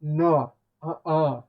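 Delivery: loud indignant. Real, not acted. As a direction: put your foot down loudly. Reacting to camera flip.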